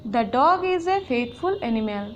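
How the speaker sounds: slow, carefully spaced words; teacher dictating an example, slow; slow example reading. Shown as a demonstration. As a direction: read the example slowly for the class. Example sentence read out.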